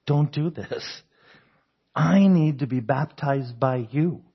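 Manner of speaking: retold plea with measured emphasis; emphatic protest. Preacher voices John refusing to baptize Jesus, emphatic protest. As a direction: lean on the key words in mild protest. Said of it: "Emphatically saying".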